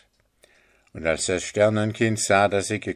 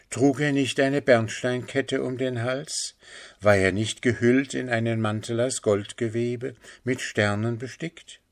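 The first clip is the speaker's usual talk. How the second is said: higher, searching woman's questions; urgently questioning mother; 4 semitones higher than usual. Acted. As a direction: press gently for confirmation. (drängend fragende Mutter)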